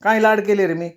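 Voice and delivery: mother indignant at the charge. Acted. Mother retorting to Shankar, indignant.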